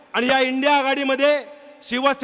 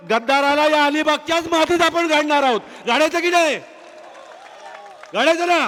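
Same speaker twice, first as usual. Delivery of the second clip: raised, fired-up call to the crowd; rousing crowd call; 3 semitones higher than usual. Real, not acted. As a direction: rile up the crowd with a question.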